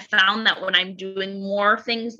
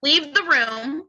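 stern parental order; 3 semitones higher, slower than usual. Retold or imitated. Mother retelling her order to a whining daughter, slow and stern. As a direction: send the child out, slowly and firmly.

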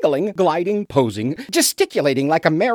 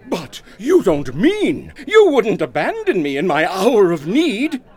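hammy stage plea; 4 dB louder than usual. Acted. Overacting pleas to Doris.

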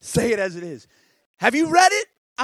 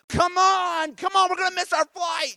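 mock yell; 9 semitones higher, 3 dB louder than usual. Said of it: "like, yelling, like".

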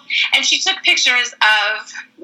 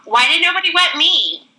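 higher mock-pouty question; left-out JC; 6 semitones higher than usual. JC asking the crowd, mock pout. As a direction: sulk at missing out.

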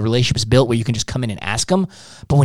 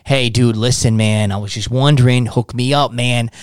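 mock suave; 3 semitones lower than usual. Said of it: "trying to suave him".

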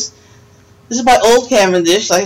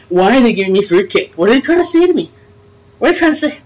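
high, suspicious mock wondering; suspicious inner voice; 4 semitones higher, faster than usual. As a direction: voice your suspicion about the gift. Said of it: "you think to yourself".

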